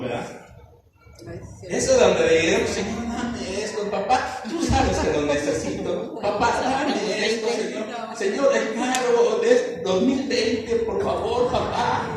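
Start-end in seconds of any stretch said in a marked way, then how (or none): 2.7-12.1 slow, soft, wheedling asks with a laugh in it; half-joking pleading prayer; mock begging prayer. Shown as a demonstration. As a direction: beg God playfully like a child for a new car. Demonstrating a prayer of petition.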